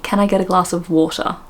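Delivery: tentative Cockney attempt. Host trying out how Cockneys ask for water, Cockney. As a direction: try a light Cockney accent. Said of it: "how do they ask".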